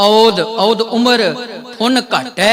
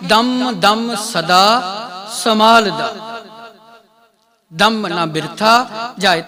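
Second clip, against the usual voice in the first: ਦਮ ਦਮ ਸਦਾ drawn out very slowly, ਨਾ said as a single clear ਨਾ; slow, deliberate scripture recitation; slow careful recitation; slower than usual. Shown as a demonstration. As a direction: lay out every word of ਦਮ ਨਾ ਬਿਰਥਾ ਜਾਏ slowly and cleanly. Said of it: "ਕੱਲਾ ਨੰਨਾ ਕੱਲਾ ਬੋਲੋ".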